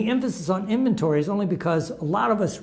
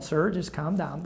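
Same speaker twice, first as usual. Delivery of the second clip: softer, slower retold plea for calm; imitating polite placation; 5 dB quieter than usual. Car shop man to a yelling customer, imitated politeness. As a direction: placate an irate caller, slowly and softly. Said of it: "He's being very polite".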